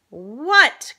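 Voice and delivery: loud, high cry of disbelief; startled cry. A narrator's reading. Mom seeing the dinosaur, crying out. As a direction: cry out in shock. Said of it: "cried my mom".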